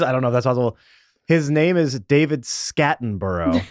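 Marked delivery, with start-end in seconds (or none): 1.3-3.6 slow, deadpan reveal of a silly name; straight-faced. Real, not acted. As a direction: announce the joke name, holding back laughter. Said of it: "with a straight face".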